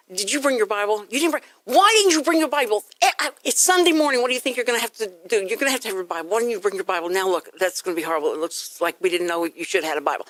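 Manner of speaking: mock exasperated parent nagging the kids; acted angry scolding. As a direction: scold the kids in a mild, hurried fluster. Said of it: "you have to be angry".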